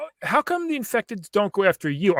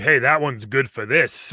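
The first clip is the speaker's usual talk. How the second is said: slow attempt at merchant's British accent; 5 semitones lower, slower than usual. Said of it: "sorry for the accent".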